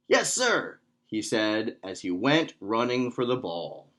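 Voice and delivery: put-on measured, expressive read-aloud for kids; children's story narration. A narrator's reading. Instructor reads a Taekwondo tale to kids, storytime narration.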